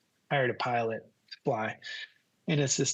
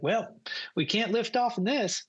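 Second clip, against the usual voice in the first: high pilot voice; pilot impression; 9 semitones higher than usual. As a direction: imitate the pilot, raised well above your own pitch. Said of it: "that's how he talked".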